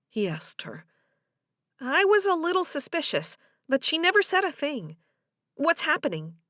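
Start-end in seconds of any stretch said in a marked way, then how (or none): 1.8-6.4 higher-pitched woman's voice, eager for news; curious Delia. Acted. Delia asks Joe about Amy and Mike, curious. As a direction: play her fishing for the gossip.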